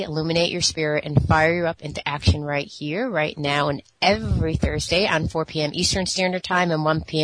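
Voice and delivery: upbeat on-air host read of the show intro; radio host opening. Acted. Radio host welcoming listeners to the show, upbeat announcer read.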